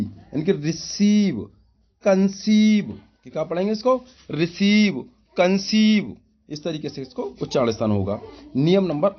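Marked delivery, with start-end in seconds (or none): 0.0-6.2 रिसीव और कंसीव में लंबी ई खींचकर; बड़ी ई साफ़ खींचते हुए बोलो; long ee demo. Shown as a demonstration. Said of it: "तो इसको बड़ी ई". (लंबी ई वाला उच्चारण)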